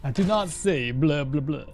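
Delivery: short burst of mock vampire accent; Dracula. Streamer showing he can do an accent briefly, mock Dracula accent. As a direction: put on a lightly hammed vampire accent. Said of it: "I can do an accent sometimes".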